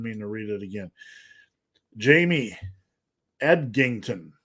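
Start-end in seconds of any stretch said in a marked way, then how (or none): 2.0-4.3 name spoken slowly and carefully. Real, not acted. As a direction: sound out the name unhurriedly, with a pause between first and last name. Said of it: "I had to say that slowly".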